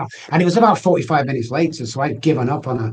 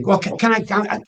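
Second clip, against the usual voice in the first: much higher, timid stammering request; high hesitant asking; 8 semitones higher than usual. Retold or imitated. Someone asking at the pump, high and unsure. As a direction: voice someone shyly asking to help. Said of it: "And I'm out again".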